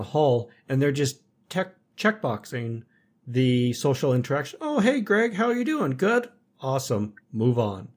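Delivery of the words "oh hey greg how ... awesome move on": mock coworker greeting. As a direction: send up a coworker's fake-cheery greeting in a much higher voice. Mocking hollow office small talk.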